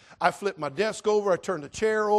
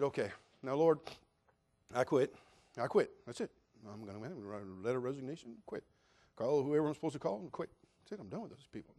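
muttering to himself; 3 semitones lower, 7 dB quieter than usual. Retold or imitated. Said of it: "walking down the street talking to myself".

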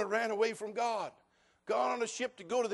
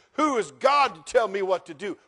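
proud, scoffing Pharaoh, moderately raised; defiant Pharaoh; 5 dB louder than usual. Retold or imitated. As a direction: toss the challenge off arrogantly. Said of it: "And Pharaoh says".

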